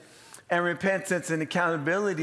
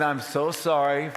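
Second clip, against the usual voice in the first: slow, fuller-voiced apology; emphatic retold apology; 2 semitones lower, slower than usual. Driver apologizing to the giant man, slowly and emphatically. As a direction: stretch it out and make it carry. Repeats the apology more firmly.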